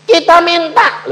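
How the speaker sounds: high, loud startled "why?"; shocked protest, high and loud; surprised. Retold or imitated. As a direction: jump up in pitch, caught off guard. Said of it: "Aku bilang".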